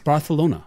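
Barcelona with a "th" for the c; Castilian "th" in the middle of Barcelona; Spanish pronunciation. Shown as a demonstration. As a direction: say Barcelona as bar-thuh-LOH-na. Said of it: "That's how it's pronounced".

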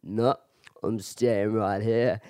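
low, slow imitated Irish refusal; Irish accent. Stubborn drunk Irishman refusing to leave, low Irish accent. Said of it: "He's like".

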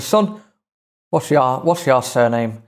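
lightly put-on Irish accent; a rough imitation of an Irish accent. Teller quotes the man asking his surname, Irish accent. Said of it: "I apologise for the accent".

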